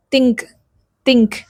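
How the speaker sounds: Indian accent: think said with a hard T, tongue touching the teeth; Indian-style think. Shown as a demonstration. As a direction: say think the Indian way, a stopped T instead of TH. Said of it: "In Indian accent, we'll say".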